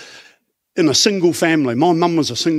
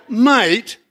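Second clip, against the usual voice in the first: Australian Jesus; slower than usual. Retold or imitated. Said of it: "I'm talking Australian Jesus".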